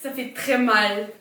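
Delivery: talking through sore braces; barely opening the mouth. Real, not acted. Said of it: "mon appareil dentaire qui me défonce la joue".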